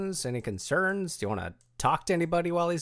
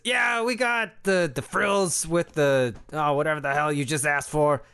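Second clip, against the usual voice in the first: squeaky clicking bat; 3 semitones higher than usual. Acted. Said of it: "He says".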